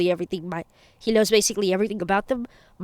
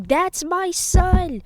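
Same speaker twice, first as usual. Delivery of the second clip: high, drawn-out proud cheer; 10 semitones higher, much slower than usual. A narrator's reading. Endeavor cheers from the festival crowd, cheering. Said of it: "Endeavor is in the crowd cheering".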